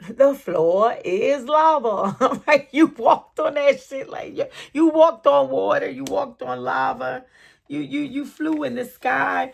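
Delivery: high loud celebration; excited hype. Real, not acted. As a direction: cheer them on. Hyped praise of the querent.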